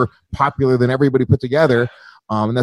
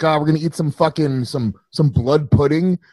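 gloomy Englishman. Retold or imitated. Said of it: "The English were like".

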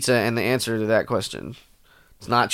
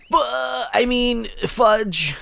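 catching a swear; 11 semitones higher, much slower than usual. Retold or imitated. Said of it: "I'll be like".

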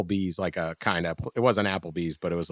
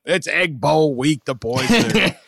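higher, slow, shrugging bar patron voice; local woman; 6 semitones higher, 4 dB louder, slower than usual. Retold or imitated. Woman explains fights to dad, slow shrugging voice. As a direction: play it like it's just normal here. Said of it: "They're like".

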